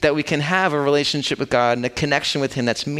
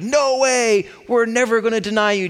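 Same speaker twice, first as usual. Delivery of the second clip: brash outburst; 9 semitones higher than usual. Retold or imitated. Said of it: "jump up out of his seat and go crazy".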